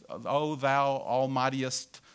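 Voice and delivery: slow, put-on King James prayer voice, lightly done; mock lofty prayer. Preacher mocks showy prayer, slow and lofty. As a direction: ham up old-fashioned churchy praying. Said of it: "all these thes and thous".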